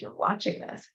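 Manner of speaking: hushed unvoiced insistence; whispered command. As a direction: whisper it firmly. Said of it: "was like".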